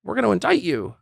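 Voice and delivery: high, mocking voice of the critics. Host mocking critics who tell Trump to go away, high sneer. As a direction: sneer it high like everyone dismissing him. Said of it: "Everyone else is like".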